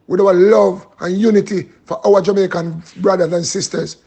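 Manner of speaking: measured praying with pauses between phrases; prayer. Real, not acted. Praying to the Father for Jamaica, measured prayer. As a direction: pray aloud, phrase by phrase. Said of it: "I'm gonna pray for Jamaica".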